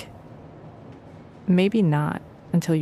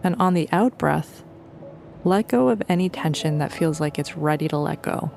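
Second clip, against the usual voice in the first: calm, unhurried meditation guide with long pauses; guided meditation; 3 dB quieter than usual. Real, not acted. Teacher leading listeners to notice their thoughts, calm meditation voice. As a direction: gently guide them through it, leaving space between phrases.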